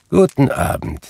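short, final send-off; curt dismissal. A narrator's reading. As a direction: cut the nephew off. Scrooge curtly dismisses the nephew.

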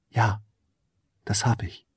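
barely above a breath, shy; faint little fairy voice. Acted. Fairy answers the prince, barely a breath. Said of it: "Ihre zarte Stimme war nur ein Hauch".

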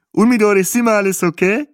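smacking lips. Acted. Bahä asks the couple while eating, chewing talk. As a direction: ask with a mouthful of bread. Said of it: "schmatzte Bahe".

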